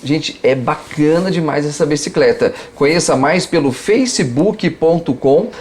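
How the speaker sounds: upbeat sponsor announcement; ad read. Acted. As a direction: sell it like a radio spot.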